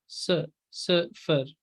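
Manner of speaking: सिफर said slowly with a clipped final r; teacher slowly modelling सिफर; slow careful sifr. Shown as a demonstration. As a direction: draw out सिफर, stressing the first syllable. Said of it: "सिफर नहीं बोलना".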